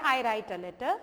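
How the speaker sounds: "I write a letter" said flat as a statement, falling at the end, no question rise; बयान की तरह गिरती लय, "I write a letter" में सवाल वाली चढ़ान नहीं; statement tune. Shown as a demonstration. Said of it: "प्रश्न जैसा नहीं होना चाहिए". ("I write a letter" को सीधा कथन की तरह बोलो)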